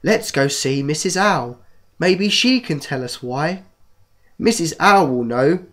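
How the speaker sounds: slow storybook reading voice; reading to children. Acted. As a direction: read it like a bedtime story. Reads a children's book aloud.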